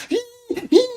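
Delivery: mimicked whistle toots; imitated whistle. Group blowing whistles at someone, mimicked toots. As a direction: squeal short mock whistle blasts. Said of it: "we blowing whistles".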